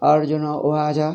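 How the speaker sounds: "Arjuna Uvaja" with unstressed, light consonants; imitated light pronunciation. Teacher imitates foreign students, lightly pronounced "Arjuna Uvaja". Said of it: "They say like that".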